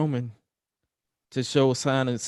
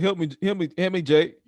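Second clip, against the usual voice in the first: a slightly higher, lightly acted "help me, Jay"; lekko odegrane wołanie o pomoc; mock plea for help; 5 semitones higher than usual. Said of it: "He was like".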